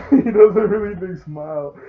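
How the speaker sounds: grinning wide while speaking. Shown as a demonstration. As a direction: stretch a big smile across the words. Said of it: "Look at this".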